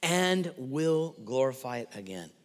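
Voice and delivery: lightly voiced God, stately and deliberate; voice from heaven. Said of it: "A voice from heaven was heard".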